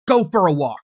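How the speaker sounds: loud retold yell of go for a walk. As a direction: bark the order out like she did. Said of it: "Sarah yells".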